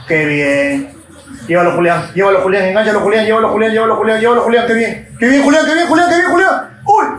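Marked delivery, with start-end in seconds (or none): 1.5-7.1 building louder, higher cheering into a laugh; excited cheering. Real, not acted. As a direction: urge the striker on, rising. Alienta a Julián en jugada. (alentando emocionado)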